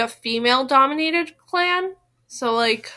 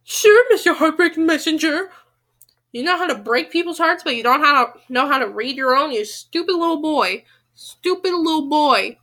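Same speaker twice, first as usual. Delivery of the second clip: sarcastic jeer, a bit louder; mocking the character; 3 dB louder than usual. Real, not acted. Reader taunts Quentin as a mister heartbreaking messenger.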